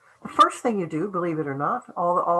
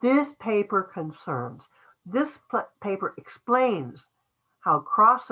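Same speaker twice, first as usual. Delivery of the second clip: slow model sentence. Shown as a demonstration. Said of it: "focusing it on that first sentence".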